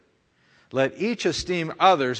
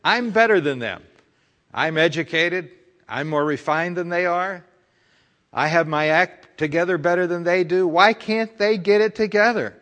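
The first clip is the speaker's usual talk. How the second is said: smug, rising to an indignant higher peak; mock proud thought; 4 semitones higher than usual. Preacher acting out the congregation's proud judgment, hammed-up smug. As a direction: play up the arrogant inner voice. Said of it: "Isn't that what you're saying".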